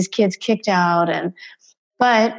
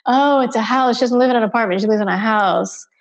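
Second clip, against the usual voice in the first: her inner thoughts voiced. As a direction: mimic her musing to herself. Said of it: "her stream of consciousness thinking".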